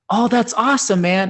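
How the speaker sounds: laid-back stoner voice. Retold or imitated. Quoting Duncan's reply.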